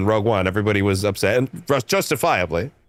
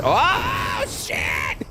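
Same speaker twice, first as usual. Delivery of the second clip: startled shout; 4 semitones higher than usual. Real, not acted. Car crashes during gameplay.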